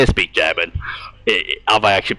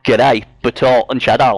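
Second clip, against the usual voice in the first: Australian accent. Shown as a demonstration. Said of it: "I thought your name was Bernie, not Briggs".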